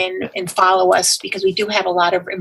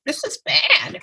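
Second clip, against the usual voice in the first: incredulous inner voice; 7 semitones higher, 4 dB quieter than usual. Retold or imitated. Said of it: "I'm like".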